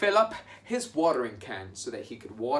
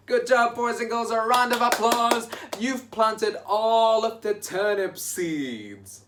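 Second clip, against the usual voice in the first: excited praise; 9 semitones higher, 5 dB louder than usual. Real, not acted. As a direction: cheer the class on. Praising children.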